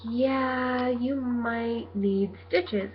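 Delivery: drawn-out, softly hedged imitation; hedging verdict. Paramedics tell her she might need stitches, imitated hedging.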